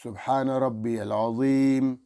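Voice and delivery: slow, stretched "سبحان ربی الاعلی"; slow tasbih. Shown as a demonstration. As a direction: say it calmly. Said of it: "ایک دفعہ پڑھو". (آہستہ ٹھہر کر تسبیح)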